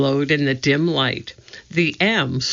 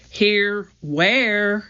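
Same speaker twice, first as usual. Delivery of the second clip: calling back; 6 semitones higher than usual. A narrator's reading. Jack to his unseen sister, calling back. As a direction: call back, pitch lifted. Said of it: "he called back".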